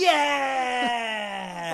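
loud cry; shout. Acted. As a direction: yell it out. Shouted cry after rant.

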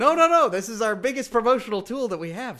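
loud, high rush of objection; alarmed protest. Pretend. Co-host stopping plan to dump the show, alarmed protest. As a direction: cut in to stop a terrible idea.

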